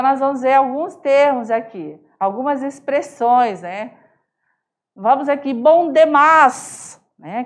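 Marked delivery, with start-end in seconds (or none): 5.5-7.0 bom demais stretched slowly, Cuiabá style; Cuiabá accent bom demais; cuiabano drawl. Shown as a demonstration. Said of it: "Essa sonoridade dessas pronúncias".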